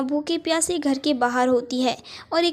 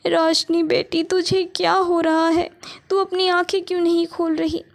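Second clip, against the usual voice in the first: worried mother; 4 semitones higher than usual. Acted. Mother's daughter won't open eyes.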